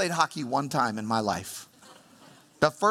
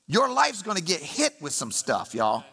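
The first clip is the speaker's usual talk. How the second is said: emphatic warning; 6 semitones higher than usual. Acted. Preacher voicing Jesus to the congregation, emphatic higher warning. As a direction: drive it home like a blunt warning. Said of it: "extremely emphatic language to say".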